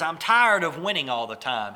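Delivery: mock fed-up outburst; upset. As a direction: act out a man losing patience. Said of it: "the guy gets upset".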